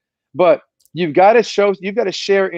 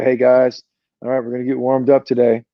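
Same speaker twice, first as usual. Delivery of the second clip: low-energy coach; 4 semitones lower than usual. Retold or imitated. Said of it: "you're gonna have a dead morning".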